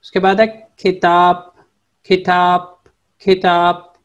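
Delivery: खिताब said with a clear kh and final p; teacher drilling खिताब; Turkish word demo. Shown as a demonstration. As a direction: repeat खिताब for students. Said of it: "पे की जगह पे हमने बे लगा देना तो किताब".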